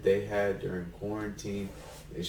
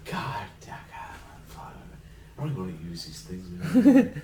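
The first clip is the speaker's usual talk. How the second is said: germaphobe; 3 dB louder than usual. Acted. Germaphobe Wolverine acted quote.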